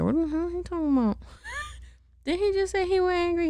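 high, fast, laughing protest; laughing disbelief. Real, not acted. Listener laughing at the moon's story.

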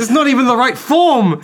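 high furious yell; outraged shout. Pretend. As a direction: scream it in indignation. Joins the virtuoso's outrage.

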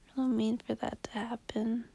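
soft, sad whisper. Real, not acted. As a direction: whisper it like an apology. Late-night sad confession.

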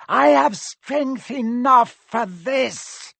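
a dark lord's strange thin voice; high eerie voice. Acted. The high voice answers.

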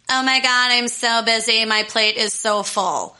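lightly snarky imitation of a humblebrag. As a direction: mimic someone moaning about being busy. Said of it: "I sounded so snarky and bitchy".

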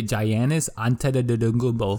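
Giannis Antetokounmpo garbled as "jai-ANN-is anteta-dudungubo"; mangled attempt at Giannis Antetokounmpo, syllables tumbling; fumbled mispronunciation. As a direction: stumble through Giannis Antetokounmpo with a hard J and babbled ending. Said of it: "They used to say".

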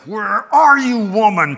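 loud, high call across the house; desperate yell for help from the wife. Retold or imitated. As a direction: shout for your wife from another room. Husband calling out to wife.

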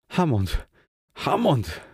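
mild narrated call for help, rising on the repeat. A narrator's reading. Frightened man calling his friend Hammond, restrained calling out. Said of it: "wołałem".

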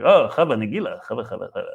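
comic put-on Jewish accent. Shown as a demonstration. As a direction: do a jokey Jewish accent, throaty ch. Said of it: "I'll do a Jewish".

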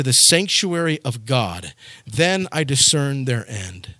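measured, solemn reading of the psalm; scripture reading. Acted. Pastor reading the psalm to his congregation, solemn reading.

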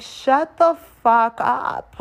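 exasperated retort. Retold or imitated. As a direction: stretch every word, totally done with him. Snapping at drunk date.

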